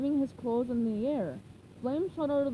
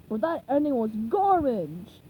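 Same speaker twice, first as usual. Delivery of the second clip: louder blunt seagull; lightly voiced seagull critic; 5 dB louder than usual. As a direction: sneer it.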